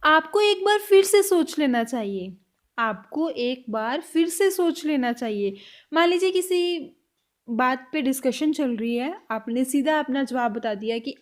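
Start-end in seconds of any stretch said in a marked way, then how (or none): 2.8-5.6 slow and a little lower, for learners; slow, careful repeat. Shown as a demonstration. Teacher repeating the line slowly for students. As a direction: spell each word out slowly. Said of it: "next sentence".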